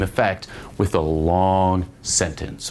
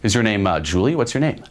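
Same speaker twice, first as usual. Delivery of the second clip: examining challenge; 3 semitones higher than usual. Shown as a demonstration. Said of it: "kinda like examining".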